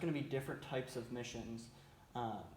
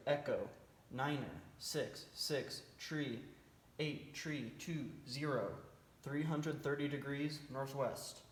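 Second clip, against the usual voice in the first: calm radio fire call; slower than usual. Shown as a demonstration. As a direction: read each line like a radio operator. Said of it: "here's what the transmission might sound like".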